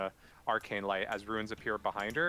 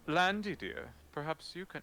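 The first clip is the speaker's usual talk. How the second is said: higher-pitched, courtly call; summoning a helper; 8 semitones higher than usual. Acted. Knight calling Landy to examine Ophelia, higher-pitched summons. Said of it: "snaps his fingers and goes".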